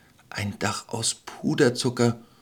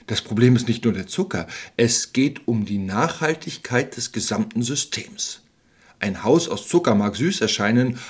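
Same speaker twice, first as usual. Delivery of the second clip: calm, instructive. Acted. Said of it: "mit einem beruhigenden, fast lehrreichen Tonfall".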